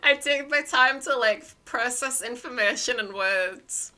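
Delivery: loud, drawn-out insistence; emphatic slowness. Real, not acted. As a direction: stretch the words, high and emphatic. Stressing own slowness after laughing.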